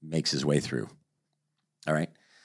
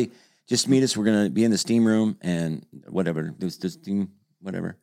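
put-on Finnish accent. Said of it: "Finnish accent?".

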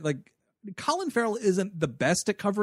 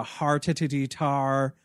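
slow cartoon Irish burr; leprechaun-style Irish gibberish; mock Irish accent; 3 semitones lower, much slower than usual. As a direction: drag out a silly Irish accent. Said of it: "Irish accent".

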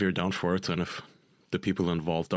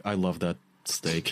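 put-on drunken blurt; 3 semitones lower, slower than usual. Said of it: "I said, like".

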